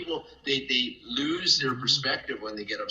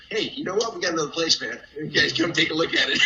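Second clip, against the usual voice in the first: louder, higher, eager quote; retold excited announcement; 5 semitones higher, 6 dB louder, faster than usual. Friend inviting the guys to see another place, excited. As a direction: imitate an upbeat invitation.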